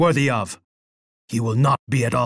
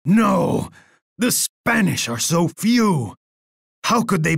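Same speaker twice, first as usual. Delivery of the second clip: outraged denial; 5 semitones higher than usual. Acted. Emperor learns of defeat.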